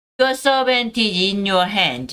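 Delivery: plain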